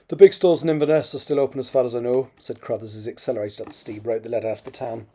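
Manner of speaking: measured, expressive novel reading; story narration. A narrator's reading. Author reads a draft chapter aloud, story narration. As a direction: read it out as an audiobook narrator.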